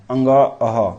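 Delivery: अह ending in an audible "h"; अंग then अह, sounded separately with an h at the end. Shown as a demonstration. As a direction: demonstrate अंग, अह, letting अह close on a ह sound. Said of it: "ह type का last में सुनने को दे रहा है".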